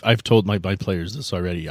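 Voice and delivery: ordinary talk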